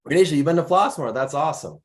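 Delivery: usual speaking voice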